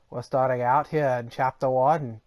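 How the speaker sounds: a hint of a dramatic narrator; odd put-on voice. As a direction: put on a faint movie-trailer voice. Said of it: "I don't know why I'm talking like this".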